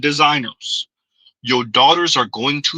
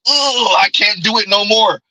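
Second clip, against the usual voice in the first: higher-pitched quote of a fed-up woman; mock weary complaint; 4 semitones higher than usual. Host quotes an older woman giving up, mock weary complaint. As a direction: imitate someone who has had enough. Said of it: "that's saying".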